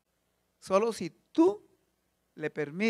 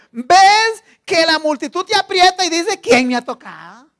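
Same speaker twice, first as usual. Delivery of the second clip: blunt Peter; 6 semitones higher, 14 dB louder, slower than usual. Retold or imitated. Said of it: "Pedro es un tajante".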